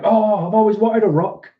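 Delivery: high, loud put-on gushing; mock delight. Acting delighted receivers of gift.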